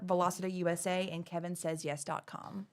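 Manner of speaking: running out of breath at the end; winded after a long list. Real, not acted. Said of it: "I'm out of breath".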